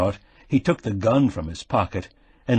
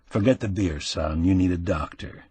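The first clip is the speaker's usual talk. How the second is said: avuncular concern; 3 semitones lower than usual. Acted. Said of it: "with avuncular concern".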